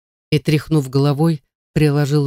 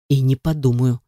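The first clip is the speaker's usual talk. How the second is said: through gritted teeth. A narrator's reading. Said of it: "Сквозь зубы ответил он".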